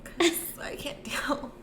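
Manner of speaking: soft breathy whisper. Real, not acted. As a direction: drop to a whisper to hold it together. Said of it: "gonna have to start whispering".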